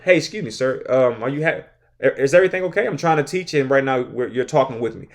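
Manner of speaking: polite, stiff and quiet robotic; politely ask, like a robot reading; robotic teacher voice. Shown as a demonstration. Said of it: "it's coming across very robotic".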